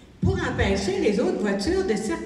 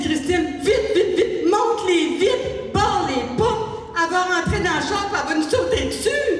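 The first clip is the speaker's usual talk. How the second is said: panicked urging; 5 semitones higher than usual. Retold or imitated. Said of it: "j'ai dit".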